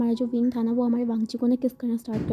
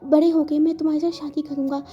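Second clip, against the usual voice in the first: tearful confession; 3 semitones higher than usual. Acted. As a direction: confess love while holding back tears.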